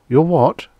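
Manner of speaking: sudden high startled question; jolted, voice jumps up; shocked. A narrator's reading. Men jerk in shock.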